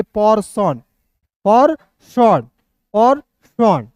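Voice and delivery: "पर्सन" with a short er sound; right pronunciation. Shown as a demonstration. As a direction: say "पर्सन", not "पेड़सन". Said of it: "ई का उच्चारण एक रूप पे नहीं करिएगा". ("पर्सन" का सही उच्चारण)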